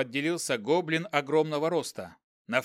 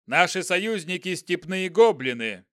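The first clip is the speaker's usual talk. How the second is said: louder commanding general, brisk pace; haughty general; 3 semitones higher, 5 dB louder than usual. Acted. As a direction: state it like a proud general. General addresses goblin.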